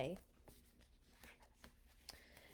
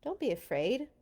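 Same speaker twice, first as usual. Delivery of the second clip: calm reassurance; 3 semitones higher than usual. Acted. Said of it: "Moses said".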